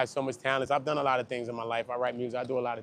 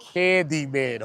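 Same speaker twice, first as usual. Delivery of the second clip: slow spooky summons; 3 semitones higher, much slower than usual. Pretend. Saying the name three times.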